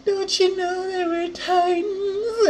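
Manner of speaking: high, slow, sing-song mock yell; mock scream. Retelling a villain's taunt, hammed-up high sing-song yell. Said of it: "Dude screaming like".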